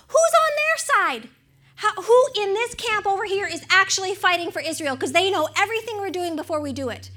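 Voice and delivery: sharp high alarmed question from the king; alarmed outraged king. Retold or imitated. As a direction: demand to know who the traitor is. King demands who betrays him.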